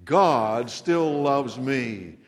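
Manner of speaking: very slow, each word of "God still loves me" spaced out; slow repeat-after-me. Shown as a demonstration. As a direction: lead the room through it slowly. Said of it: "Will you say that with me".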